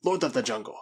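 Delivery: lightly voiced, self-glorifying Spaniard; boastful madman. Spaniard boasts of the slaying to the girl, boastful. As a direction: brag with emphatic, rising force.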